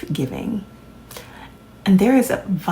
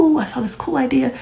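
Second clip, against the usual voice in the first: excited idea; 6 semitones higher than usual. Retold or imitated.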